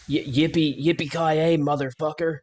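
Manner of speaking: building action movie one-liner; rising hammy cowboy yell; action hero catchphrase. Pretend. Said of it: "buddy cop".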